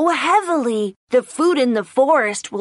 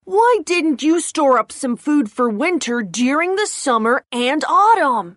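pouting. Acted. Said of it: "He pouted and said".

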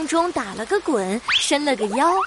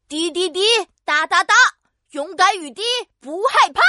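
bold rallying chant, a bit higher; shouting; 3 semitones higher than usual. Acted. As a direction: call out the spell bravely. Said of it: "大声喊着".

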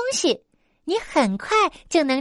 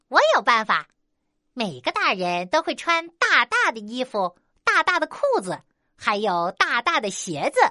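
smug. Acted. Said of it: "得意地说".

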